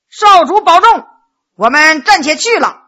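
loud farewell. Acted. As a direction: call your goodbye out boldly. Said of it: "高声说道".

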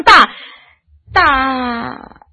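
faltering break. Acted. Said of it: "他本想说大嫂".

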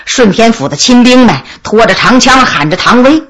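ordinary delivery

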